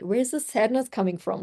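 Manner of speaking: lightly voiced curious Dora-style question; curious explorer. Coach asking herself like Dora the Explorer, lightly curious. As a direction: ask it like a kid explorer on a hunt. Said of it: "I've been like Dora the Explorer".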